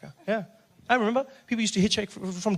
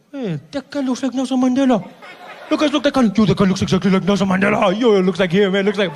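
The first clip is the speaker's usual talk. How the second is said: excited; 5 dB louder than usual. Retold or imitated. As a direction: point him out to your friends, thrilled. Excited driver spotting Mandela.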